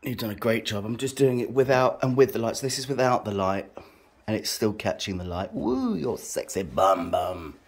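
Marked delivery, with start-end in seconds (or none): 5.5-7.5 teasing. Real, not acted. Teasing partner.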